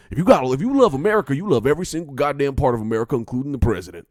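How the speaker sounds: loud, high-pitched redneck patriot rant; put-on American redneck accent. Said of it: "say it in that accent, too".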